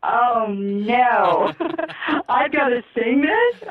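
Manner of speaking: high, laughing oh no; giggly dismay; aghast disbelief. Retold or imitated. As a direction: squeal in mock horror. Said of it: "And I'm like".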